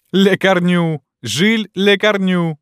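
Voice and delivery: high, loud calls with drawn-out name; crowd's jeering shouts. A narrator's reading. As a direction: chant the name to taunt him. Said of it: "кричали они".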